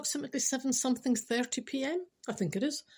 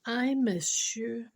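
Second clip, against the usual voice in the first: slow reading; much slower than usual. Acted. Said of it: "The text said".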